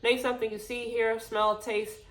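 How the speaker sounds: winded, catching her breath. Real, not acted. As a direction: talk while still breathless. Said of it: "'cause I am out of breath".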